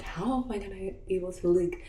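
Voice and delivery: mildly exasperated, pitch climbing; a touch of angry complaint; retold anger. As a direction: re-enact an indignant rant. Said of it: "I was just, like, so angry".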